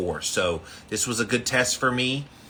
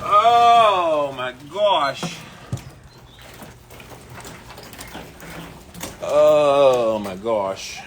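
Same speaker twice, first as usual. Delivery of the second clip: loud, slow, breathless gasps; drawn-out gasps after the icy plunge; gasping from cold; 4 semitones higher, 7 dB louder, much slower than usual. Real, not acted. Just came up from icy water.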